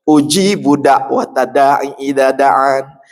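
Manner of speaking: slow, drawn-out verse recitation; Quran recitation. Acted. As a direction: chant the verse slowly and reverently. (tilawah ayat perlahan)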